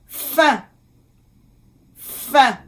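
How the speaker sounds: "Fin" in French, nasal vowel, silent n; careful French pronunciation. Shown as a demonstration. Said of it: "So, A I N".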